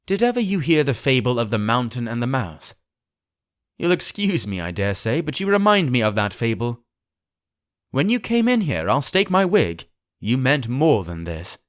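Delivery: high, lightly teasing lilt; with a smile. Acted. Doctor gently mocking the captain with a fable, amused. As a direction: needle the captain with amused mock gravity. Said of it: "began the doctor with a smile".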